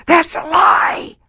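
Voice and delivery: high, slow shout of denial; screamed defiance. Retold or imitated. An orphan girl screams back at the speaker, defiant. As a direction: yell it out against the whole room. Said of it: "I screamed out".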